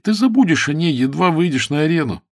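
ordinary delivery, nothing marked

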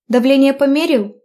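lightly voiced grandfather; grandpa's voice. A narrator's reading. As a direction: voice the grandfather checking on her.

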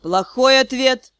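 slow, even and calm. Acted. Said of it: "очень спокойно произнёс Риан".

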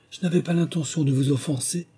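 high-pitched, placating Alice; conciliatory. A narrator's reading. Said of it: "d'une voix conciliante".

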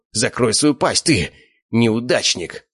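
snarling. Acted. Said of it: "зарычал на Славика толстяк".

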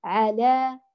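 "على" held long with a full open a; "على" drawn out slowly, clearly open; full open fatha. Shown as a demonstration. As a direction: open the vowel of "على" wide and sustain it. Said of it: "لفتح ما قبله".

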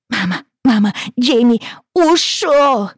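high, loud, slow wail; child wailing. Acted. Crying girl calling to her mother, high and loud. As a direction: cry out for mama.

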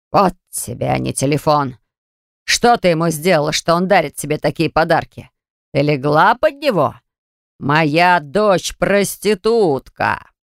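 slow, contemptuous tirade; raging father. Acted. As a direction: hurl the words at her. Father rages at daughter.

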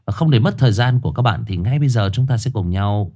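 measured horror-story host announcement; formal show intro. Acted. Host welcomes listeners to a highland ghost story, formal announcer delivery. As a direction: present it formally, lingering on the titles.

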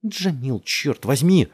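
high, exasperated shout, rising in volume. A narrator's reading. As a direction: yell his name and curse. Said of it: "закричала она". (раздражённый крик)

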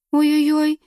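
put-on high, thin, childish whimper; thin childlike voice. A narrator's reading. Nina whimpers at her sister's grip, high and childlike. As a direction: squeak like a hurt little child. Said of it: "зачастила тонким голосом".

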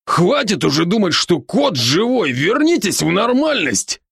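бодрый, чуть выше голос друга-оборотня; успокаивает друга, слегка играя роль; Рон, заботливый друг. Acted. Ron's voice again. (оборотень Рон уговаривает друга дышать)

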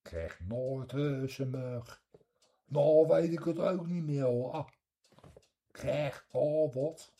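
a broad The Hague local; Hague accent. Shown as a demonstration. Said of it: "in de Haagse is weer anders".

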